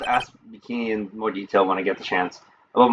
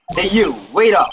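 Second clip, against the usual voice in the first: loud call, pitched up high; 6 semitones higher, 4 dB louder than usual. Acted. Stranger calls out to Nick and Maya, loud call. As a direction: shout after them to stop. Character calls after them.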